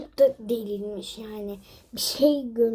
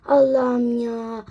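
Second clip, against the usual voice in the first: exasperated; 5 dB louder, much slower than usual. Real, not acted. Exasperated sigh.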